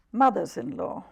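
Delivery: deliberate poetry recital with long pauses; poem reading. Acted. Poet reads her Mothers-in-law poem to the interviewer, deliberate recital. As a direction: announce the title, then give each image room.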